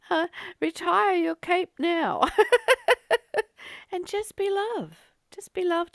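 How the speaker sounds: amused at her own joke, laughing it out. Real, not acted. Telling listeners to stop playing superhero, laughing.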